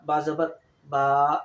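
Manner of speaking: बा ज़बर बा with the final बा drawn out long; long khada zabar. Shown as a demonstration. Teacher to students, demonstrating the lengthened vowel. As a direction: stretch the last बा in बा ज़बर बा to a long aa. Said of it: "थोड़ा सा लंबा".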